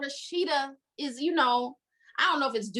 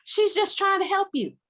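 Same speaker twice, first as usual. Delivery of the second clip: mock exasperated yell; 6 semitones higher than usual. Reader shouts at the character who won't answer, exasperated. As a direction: yell at him to pick up. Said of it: "I'm like".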